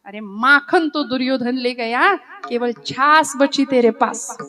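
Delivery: loud, slowing, sing-song taunting verse; playful taunt. Acted. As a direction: rub it in with a grin. Krishna taunts Arjuna in verse.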